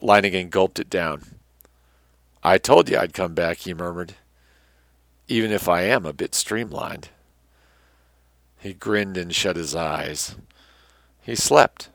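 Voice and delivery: dramatic, measured adventure-tale reading; story narration. A narrator's reading. Narrator reading an adventure tale to listeners, dramatic storytelling. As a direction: read it out with emphatic phrase openings and falling ends.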